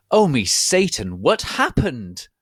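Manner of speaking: high, loud hammed-up shriek; mock scream. Ebony waking in hospital, hammed-up shriek. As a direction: shriek it like a melodramatic goth girl. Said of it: "I screamed".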